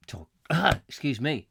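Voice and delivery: coughing after swallowing a fly; just swallowed a bug. Real, not acted. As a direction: clear the throat mid-word. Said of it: "swallowed a fly then".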